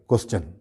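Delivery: "کوسچن" as kwes-chun; correct pronunciation. Shown as a demonstration. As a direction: end "کوسچن" on CH. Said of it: "تقریباً سب لوگ صحیح بولتے ہیں". ("کوسچن" کے آخر میں "چن")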